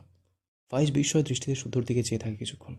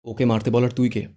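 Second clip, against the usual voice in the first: angry challenge; 6 dB louder than usual. Acted. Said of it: "Irfan রেগে বলে".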